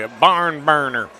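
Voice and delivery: barn burner slow, in a put-on Southern accent; slow, mock Southern barn burner. Shown as a demonstration. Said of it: "If you're gonna use a southern accent, really go with it".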